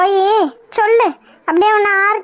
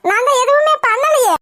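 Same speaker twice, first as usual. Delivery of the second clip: whining, pitch raised; tearful protest; 4 semitones higher than usual. Acted. Mother protesting to Uma she cooked nothing, whining. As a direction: plead innocence in a whimper.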